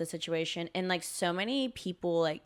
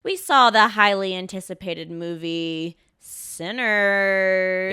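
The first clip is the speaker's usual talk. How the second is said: slow, louder announcer-like introduction; graceful segue; 7 dB louder, slower than usual. Pretend. Asked to segue gracefully into the review, polished presenter delivery. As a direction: stretch out the film title grandly. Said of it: "You gracefully segue us".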